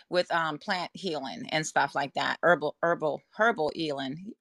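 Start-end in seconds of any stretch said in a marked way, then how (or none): 2.4-4.3 slipping into a Jamaican accent; a touch of Jamaican accent on herbal. Real, not acted. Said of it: "my Jamaican coming out of me".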